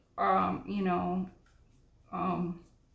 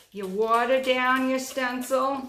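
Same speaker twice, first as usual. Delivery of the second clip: higher, louder Boston accent on "water down"; Aunt Jackie, Boston accent; 4 semitones higher, 5 dB louder than usual. Real, not acted. Crafter slipping into her aunt's speech mid-lesson, Boston accent. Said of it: "Now I sound like my Aunt Jackie".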